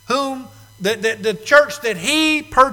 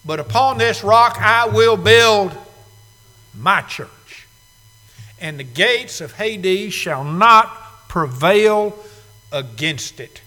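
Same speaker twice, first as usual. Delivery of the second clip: solemn scripture quote; 3 dB louder, slower than usual. Shown as a demonstration. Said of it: "quoting the verse in full".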